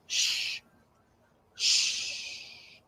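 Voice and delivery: quick hissed shush. Pretend. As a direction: hush yourself with a soft shh. Shushing herself mid-rant.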